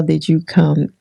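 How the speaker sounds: ordinary delivery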